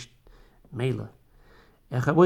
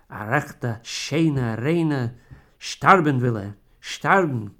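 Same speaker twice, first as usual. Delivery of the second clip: louder, aghast at the word sterben; distraught exclaiming; 4 dB louder than usual. Acted. Wife exclaims over her dying husband's words, loud dismay. Wife hears he wants to die.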